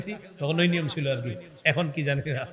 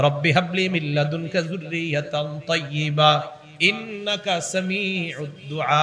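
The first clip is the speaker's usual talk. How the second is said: slow, melodic Arabic recitation; measured, drawn-out chant; Quran recitation; slower than usual. Acted. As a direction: chant the prayer with long held vowels. Recites the prayer.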